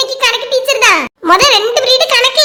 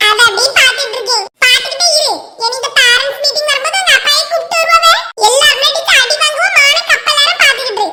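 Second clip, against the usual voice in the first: lightly voiced schoolchild; schoolkid chatter; 3 semitones higher than usual. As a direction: chat like a kid in class.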